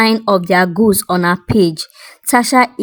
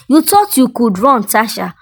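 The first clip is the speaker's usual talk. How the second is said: mild accusing call; 3 semitones higher than usual. Acted. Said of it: "her voice loud enough to draw the attention".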